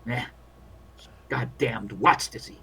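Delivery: world-weary field doctor grumbling; lightly voiced war medic venting doubts; weary army doctor.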